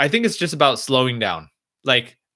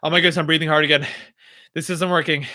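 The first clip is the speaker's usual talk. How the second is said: mildly fretful, slightly raised self-talk; mock panic; 3 semitones higher, faster than usual. Streamer acting out a failed breathing attempt, mildly panicked. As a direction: act out getting flustered by your breathing. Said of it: "you're panicking when you're thinking about breathing".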